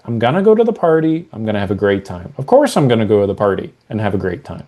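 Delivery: settled and quick, no doubt; matter of fact. Shown as a demonstration. Coach shows the client a confident matter-of-fact tone. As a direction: state it like a plain fact. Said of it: "Say it like it's just totally matter of fact".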